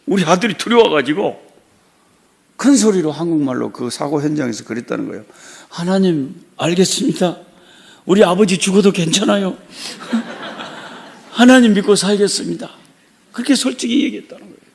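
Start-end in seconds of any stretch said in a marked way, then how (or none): 5.7-12.7 chuckling through the son's words; laughing confession. Retold or imitated. Retelling the son's blunt answer to God, laughing. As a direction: laugh as you give the honest answer.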